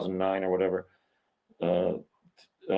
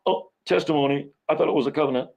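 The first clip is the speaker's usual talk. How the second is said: higher-pitched puzzled reaction; mock surprise; 4 semitones higher, faster than usual. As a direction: act out mild confusion at the wording. Acts out puzzled reaction to verse.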